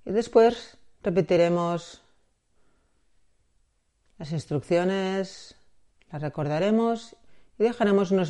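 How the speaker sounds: measured meditation guide, long pauses between phrases; guided meditation. Acted. Guide preparing listener for body scan and breathing, guided meditation. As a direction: lead gently into the practice, leaving space.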